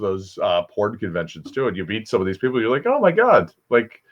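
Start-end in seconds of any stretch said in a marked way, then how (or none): 2.9-3.5 high-pitched mock fan reaction; imitated starstruck exclamation. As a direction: act out meeting a porn star in awe. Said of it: "you're almost starstruck".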